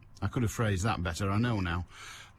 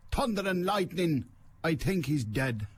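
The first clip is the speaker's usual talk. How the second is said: higher line in a lightly imitated Chinese accent; mock Chinese accent; 5 semitones higher than usual. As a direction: quote it with a hint of put-on Chinese accent. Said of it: "they do it with a Chinese accent".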